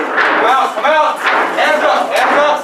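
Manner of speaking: firm repeated orders; shouted surrender demands. Real, not acted. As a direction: command them out. Raid team clearing building.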